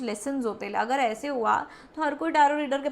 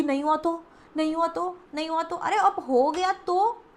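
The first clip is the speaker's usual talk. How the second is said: higher-pitched imitation of anxious what-ifs; mock worry; 4 semitones higher than usual. Tarot reader imitates the client fearing it won't work, mock worry. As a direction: act out escalating nervous doubt. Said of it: "डरो मत".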